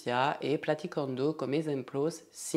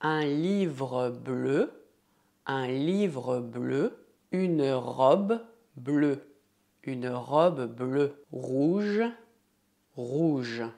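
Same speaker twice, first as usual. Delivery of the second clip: un livre bleu said slowly, each word clear; slow model phrases; much slower than usual. Shown as a demonstration. Teacher slowly models examples for students. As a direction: spell it out slowly for learners.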